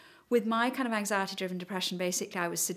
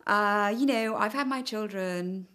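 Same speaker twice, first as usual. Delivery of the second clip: emotional; 3 semitones higher, 8 dB louder, slower than usual. Real, not acted. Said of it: "Sorry, I'm feeling a bit emotional now".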